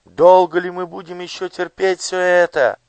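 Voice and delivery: high, loud call to the crowd; rallying call. A narrator's reading. A voice rallies the crowd. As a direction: rouse the crowd.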